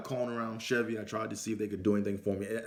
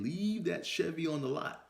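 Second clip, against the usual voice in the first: repeated higher; 8 semitones higher than usual. Shown as a demonstration. Repeating the warning to his younger self, higher. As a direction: Leave pitched up high, urgent repeat. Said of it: "Let me say that again".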